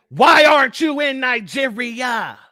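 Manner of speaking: a loud, accusing rhetorical challenge; indignant shout. Real, not acted. Host shouting at the Nigerian woman on stream, loud and accusing. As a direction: raise the voice sharply and demand an answer.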